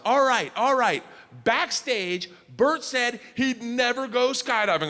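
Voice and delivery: mock TV host announcement; announcing to the crowd. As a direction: sell it to the whole crowd. Rachel Ray announcing to crowd.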